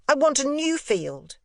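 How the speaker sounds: put-on high, cheerful boyish voice; a boy breezily untroubled; serene, gay boy Miles. A narrator's reading. Boy telling his governess his wish, high and cheerful. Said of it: "with admirable serenity ... unimpeachable gaiety".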